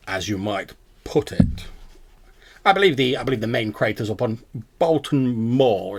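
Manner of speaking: lightly voiced scholarly owl, hesitant; pedantic owl. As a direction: explain like a self-assured owl professor. Game master plays the owl.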